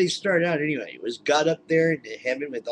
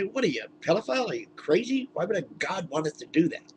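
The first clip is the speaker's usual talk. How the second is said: higher pitched mock outrage; mock outraged bystander; 5 semitones higher than usual. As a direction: shout down the madman, half-joking. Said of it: "jump up and say".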